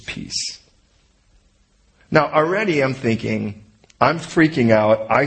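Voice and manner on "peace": breathy whispered peace; calm them with a hushed word. Pretend. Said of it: "the first thing he says to him is".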